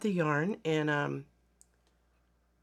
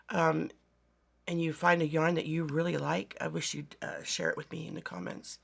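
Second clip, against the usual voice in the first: hoarse from a bad cold; rough, raspy voice with a cold. Real, not acted. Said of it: "I apologize for my raspy voice".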